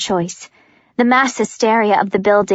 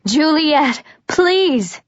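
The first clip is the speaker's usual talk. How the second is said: higher, pleading, breaking with panic; desperate plea; 5 semitones higher, much slower than usual. Acted. Warner pleads with Juliet as she escapes, higher and desperate. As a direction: beg her not to go. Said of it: "Warner is screaming my name".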